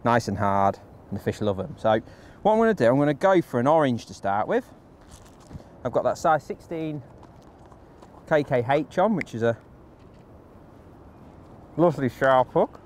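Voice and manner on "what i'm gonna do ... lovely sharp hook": talking round a bait in the mouth; words muffled by something in the mouth; mouth full. Real, not acted. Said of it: "I've just got a wafter in my mouth".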